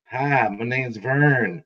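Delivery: slow, low, soft character greeting; Vern character voice. Pretend. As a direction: lean in and introduce yourself slowly. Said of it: "and you just, like".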